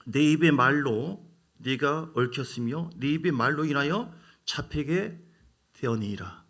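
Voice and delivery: slow, solemn reading of the verse; scripture reading. Acted. 성경 구절을 천천히 엄숙하게 낭독. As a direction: intone the verse slowly.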